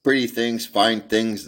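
put-on a girl showing off her treasures; enthusiastic.

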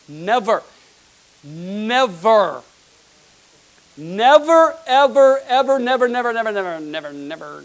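fiery preacher crescendo; preaching shout. Real, not acted. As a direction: shout the nevers at the congregation.

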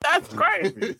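way up high in disbelief; amazed. Retold or imitated. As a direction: squeak out the amazement. Reacting to Aramaic speaker.

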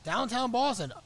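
high, loud desperate plea; urgent pleading. Retold or imitated. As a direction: beg like you really need to pee. Drunk friend begging for bathroom.

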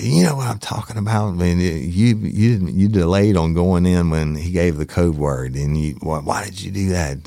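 retold scolding, mildly heated; furious boss. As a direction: imitate a chief taking a subordinate to task. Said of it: "he was furious".

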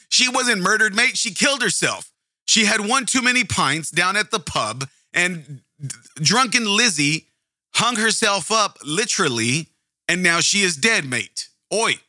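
a cartoonish British bloke saying Oi and mate; playful over-the-top British impression; mock British accent. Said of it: "the British don't say crikey. They say".

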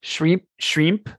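trying out "Shrimp" in Australian; tentative Aussie accent. Acted. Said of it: "an Australian accent to share".

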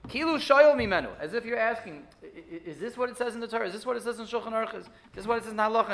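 gentle, questioning, respectful tone; respectful asking. Shown as a demonstration. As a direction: ask it humbly, as if seeking to learn. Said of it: "in a respectful way".

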